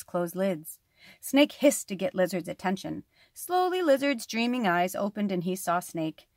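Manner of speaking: storytelling voice with character turns; story narration. Acted. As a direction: read the fable aloud. Reads lizard and snake tale.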